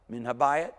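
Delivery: habayit pushed loud with a lift; stress on habayit. Shown as a demonstration. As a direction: punch habayit. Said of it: "Hear the accent there?".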